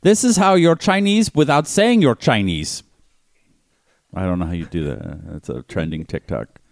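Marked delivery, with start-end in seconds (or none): 0.0-2.8 high, slow mock Russian accent; hammy Russian-accented video intro. Podcaster as China's president greeting TikTok, Russian accent. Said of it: "but you're doing a Russian accent".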